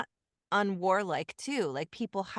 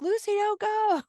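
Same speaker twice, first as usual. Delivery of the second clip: audience pleading; 5 dB louder than usual. Retold or imitated. Audience yelling at Lucy.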